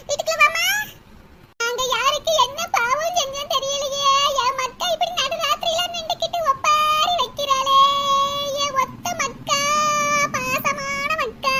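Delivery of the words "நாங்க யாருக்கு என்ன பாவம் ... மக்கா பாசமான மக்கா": mournful lament. Acted. Mother laments like a dirge.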